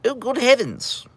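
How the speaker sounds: high, slow, prim gasp of a genteel suburban lady; posh suburbanite. Retold or imitated. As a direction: clutch your pearls, slow and lofty. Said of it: "everyone's like".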